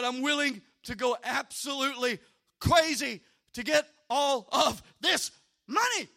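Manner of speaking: forceful preaching declaration; fired-up resolve. Retold or imitated. Preacher declaring he needs this money, fired-up resolve. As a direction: punch out the words with determined force.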